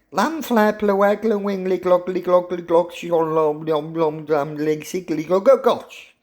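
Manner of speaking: long tongue-twisting name rattled off on a high pitch; high, sing-song gibberish Welsh, punched at the end; mock Welsh place name. Shown as a demonstration. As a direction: gabble a very long Welsh town name, badly. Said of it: "can't speak the Welsh language".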